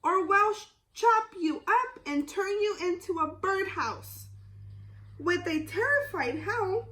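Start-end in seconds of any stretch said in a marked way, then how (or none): 0.0-4.3 bellowing woodcutter. Acted. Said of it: "below the woodcutter".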